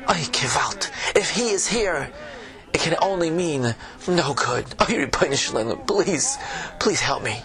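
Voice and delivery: put-on old tavern keeper, Yiddish accent; fretful innkeeper with a Yiddish lilt.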